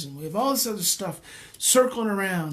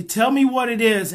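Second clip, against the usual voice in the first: raised, insistent invitation; louder, urging request; a little louder; 3 semitones higher, 5 dB louder than usual. Acted. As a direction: ask it to speak up, louder. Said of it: "it gets a little louder".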